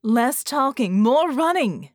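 loud urgent shout while running; screaming. Acted. Mel screaming at the others to run. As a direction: yell it at them as you flee. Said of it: "Mel screamed".

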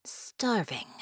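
breathy whispered admission; muttered. A narrator's reading. Demon admitting her hunger to the mercenary, whispered. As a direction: let the word escape as a whisper. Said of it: "Harmony muttered".

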